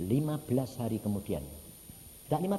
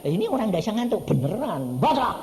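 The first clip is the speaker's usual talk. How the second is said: exclaiming; 7 semitones higher, 8 dB louder than usual. Acted. Pengkhotbah berseru menirukan orang.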